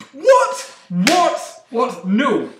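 high, then calming disbelief; shocked. Real, not acted. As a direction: start shrill and settle down. Seeing the wrong score sheet.

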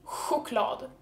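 "Choklad" as hwoo-KLAD; Swedish sj-sound. Shown as a demonstration. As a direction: say Choklad with a breathy h-w instead of ch.

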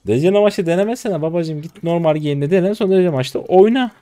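loud, high exasperated lecture; angry scolding. Real, not acted. Streamer scolding teammate for trying champ in ranked, loud and angry. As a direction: tell him off hard, speeding up.

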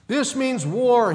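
high, loud and slow war cry; shouting declaration of war. A narrator's reading. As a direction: declare war at the top of your voice. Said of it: "he shouted".

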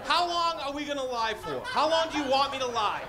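high, showy host welcome; hammed-up emcee greeting the callers. Plays cocky host greeting the call.

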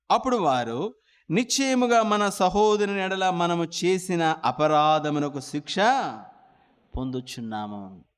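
slow, solemn reading of the verse; scripture reading. Acted. Preacher reading the Bible verse to the congregation, solemn. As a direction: read the verse slowly and solemnly.

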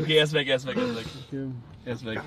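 dropping to a hush. Real, not acted. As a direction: whisper it, hiding. Hiding from man.

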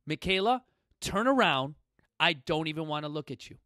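a touch of a stern Marine bark, retold; firm drill-sergeant command at his daughter; Marine bellow. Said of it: "in that bellowing, deep voice that only Marines can do".

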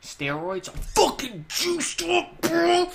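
high, hammed-up meathead bro voice; juiced-up gym bro. Bragging to viewers as a mock steroid bro, hammed up high.

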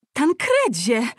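high, loud falsetto call of the name; aunt's falsetto. Acted. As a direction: shriek his name up high like a scandalised aunt. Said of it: "zawołała ciotka falsetem".

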